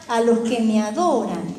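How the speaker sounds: "adoran" lifted in pitch as the key word; stress on adoran. Acted. Preacher pointing out the key word of a verse to listeners, stressing "adoran". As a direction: lean on "adoran" so it stands out. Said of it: "Fíjense cómo se recalca esta palabra".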